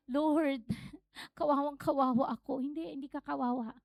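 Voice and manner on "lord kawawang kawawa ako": half-hearted self-pitying moan with a laugh; playful woe-is-me lament; mock moaning. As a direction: imitate a pitiful prayer, amused. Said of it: "dumadaing ka na".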